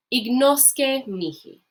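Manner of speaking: ignosce mihi said very slowly and clearly; slow model phrase. Shown as a demonstration. Teacher modelling ignosce mihi for the class. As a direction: draw out ignosce mihi for learners. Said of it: "another little saying here".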